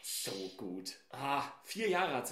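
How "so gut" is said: whispered. Real, not acted. Whispered rapture.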